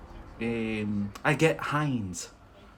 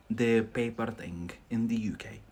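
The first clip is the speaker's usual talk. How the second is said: whispered aside; 3 semitones lower, 5 dB quieter than usual. Real, not acted. Aside about UK paper habits.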